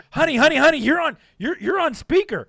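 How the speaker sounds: high, loud frantic warning; hammed-up mother-in-law panicking over the speakerphone; shrill-free loud urgent pleading; panicked wife. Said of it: "and it was like".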